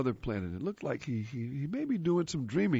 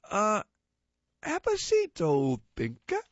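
alien voice; 6 semitones higher, 3 dB louder than usual. Acted. Second alien speaks.

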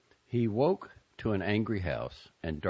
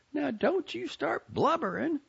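higher, tearful-tinged Southern aunt; upset Southern aunt. A narrator's reading. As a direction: voice the bitter aunt, pitched up. Aunt Maisie voiced by reader.

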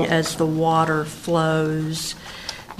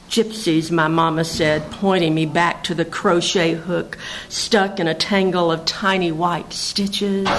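measured, lilting poem recital; poetry reading; 3 semitones higher than usual. Acted. Poet reads her mountain poem to listeners, poetry reading. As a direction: read it as verse, line by line with pauses.

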